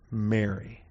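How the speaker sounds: said softly, like a familiar name; a soft, close way of saying Mary; Jesus gently calling Mary by name; tender name call. Retold or imitated. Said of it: "however he said it, whatever his tone of voice is".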